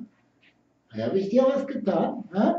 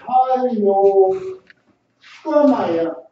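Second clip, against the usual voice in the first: louder call across the room to the bird; raised voice summoning the pet; 5 semitones higher, 7 dB louder, much slower than usual. Real, not acted. Calling the bird over.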